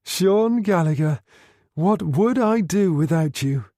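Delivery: high, slow, breaking into laughter; a woman laughing with relief and fondness; helpless laughter. Acted. Helen to Gallagher over the China tea, laughing helplessly. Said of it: "She started to laugh helplessly".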